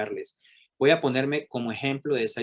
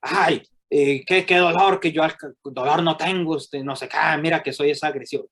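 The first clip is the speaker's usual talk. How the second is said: touchy denial; 3 semitones higher, 4 dB louder than usual. Retold or imitated. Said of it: "se pone hasta mal genio conmigo".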